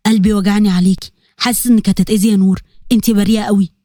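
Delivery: low, troubled father to himself; a touch of heavy-hearted fear; low, mildly sorrowful muttering; sad and worried. Acted. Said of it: "بحيرة وحزن".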